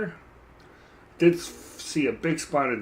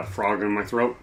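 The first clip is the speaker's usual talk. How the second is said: chuckling through the words; amused at own joke; laughing; 3 semitones lower than usual. Real, not acted. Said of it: "I'm funny".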